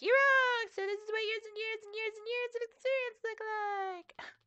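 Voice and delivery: high-pitched mocking quote of the cranky mechanic; hammed-up impression of the mechanic boasting; mock gruff mechanic. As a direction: sneer it like a know-it-all. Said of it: "As like".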